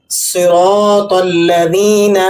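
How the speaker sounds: slow recited صراط الذین; Quran recitation. Shown as a demonstration. Teacher recites the verse, slow recitation. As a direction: chant it slowly.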